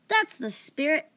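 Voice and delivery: high, drawn-out cheer; excited. A narrator's reading. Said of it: "Fan said excitedly".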